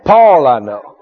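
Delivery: low, measured demon retort; demon speaking. Acted. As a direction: pause between each cool statement. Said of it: "He said".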